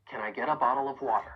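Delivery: "Can I get a bottle of water" run together quickly; fast connected speech on "Can I get a bottle of water", Ts tapped; linked question. Shown as a demonstration. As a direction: ask "Can I get a bottle of water" in one flowing phrase. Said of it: "we can turn this into a question".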